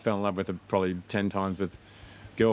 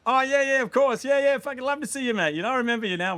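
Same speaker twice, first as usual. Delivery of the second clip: put-on drunk American bro; 3 dB louder than usual. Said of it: "then they'd be like".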